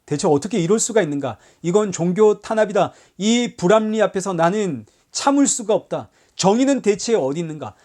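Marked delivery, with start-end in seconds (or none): 1.6-7.7 mock outcry. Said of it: "교회가 소리소리를 지릅니다".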